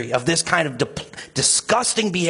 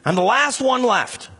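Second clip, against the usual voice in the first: higher, defeated inner voice; hopeless resignation; 6 semitones higher than usual. Retold or imitated. Elijah thinking he is the last one left, resigned. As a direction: sound like you've given up. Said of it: "He thinks".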